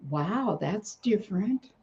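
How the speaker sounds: slow, high mock-hopeful musing; a hint of bitter sarcasm, slowed down; sarcastic thought. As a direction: sneer at the hope she'd be nice. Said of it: "and I thought".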